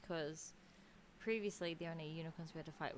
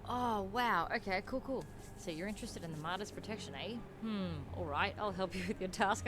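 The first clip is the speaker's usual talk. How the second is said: a loud, hammed-up Australian accent for the NPC; 4 dB louder than usual. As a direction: give the quest giver a jokey Australian twang. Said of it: "I don't know why I made him so Australian".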